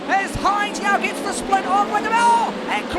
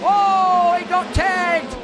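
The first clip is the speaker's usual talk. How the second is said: excited shout; much slower than usual. Real, not acted. Crash call in race commentary.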